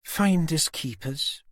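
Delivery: slow, gloating, grinning; malicious grin. A narrator's reading. Susan gloating to Tanner with a grin. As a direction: savour it smugly. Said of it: "malicious grin stretched out".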